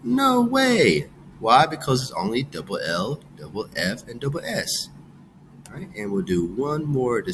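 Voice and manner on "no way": emphatic no. Shown as a demonstration. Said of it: "Would I double the G".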